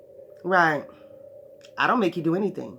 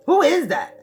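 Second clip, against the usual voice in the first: pagan asking again; 10 semitones higher, 6 dB louder than usual. Acted. Pagan asking about God.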